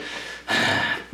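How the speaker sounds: long, breathy sigh; resigned sigh. Retold or imitated. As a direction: sigh as if giving in. Gives in to running partner.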